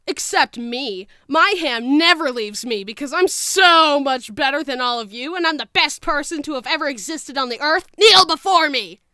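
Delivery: smug, building to a shouted command; gloat, then roar the last line; megalomaniac rant. Pretend. Boastful mock villain rant.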